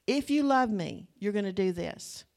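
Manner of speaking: the same guilt trip, now a demand; manipulative demand. Retold or imitated. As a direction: push the condition. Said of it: "how many have heard that?".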